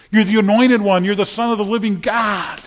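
rising proclamation. Acted. Climactic proclamation of Christ.

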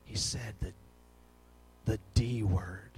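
put-on low, soft, hesitant child's report; hushed confession. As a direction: break it gently, halting before the taboo word. Child reluctantly reports forbidden word.

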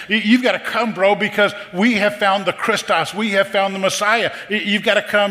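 high, urgent, excited pleading; Andrew, excited. Acted. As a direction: imitate a brother begging him to come see. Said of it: "You can hear excitement in his voice".

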